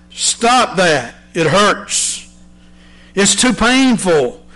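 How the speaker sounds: a clay lump begging the potter to stop, rising to a wail; crying out. Acted. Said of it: "I cried out".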